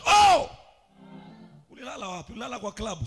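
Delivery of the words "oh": high, loud, held "Oh!"; shouted exclamation. Shown as a demonstration. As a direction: shout it out for the whole church. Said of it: "Somebody shout".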